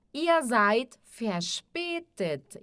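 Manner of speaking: seid said with EI as "ai", slowly; EI como AI. Shown as a demonstration. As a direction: model seid slowly, its vowel like "eye". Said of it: "o E I tem som de A I". (seid com EI soando como AI, devagar)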